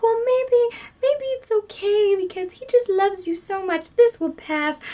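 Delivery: mock enabler friend. Mocking the enabling friend, high sing-song voice. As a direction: play the friend who sweet-talks it away. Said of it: "I was like, "Woman, you are the enabler".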